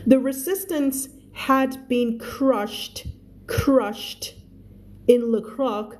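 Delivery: reads each English word slowly and clearly for learners; slow, careful read-aloud for the class; slow story reading. Shown as a demonstration. Teacher reads the book slowly to her students, careful read-aloud.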